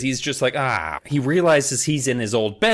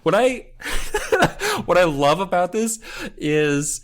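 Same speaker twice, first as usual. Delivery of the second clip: ordinary delivery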